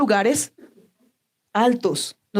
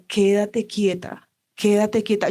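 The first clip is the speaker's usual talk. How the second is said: soothing Lord's voice; slower than usual. Retold or imitated. The Lord calming her.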